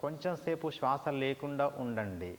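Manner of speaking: measured meditation guidance with long pauses; guided meditation. Shown as a demonstration. Teacher guides students to pause the breath, meditation voice. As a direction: pace each instruction to a breath, stretching the Oms.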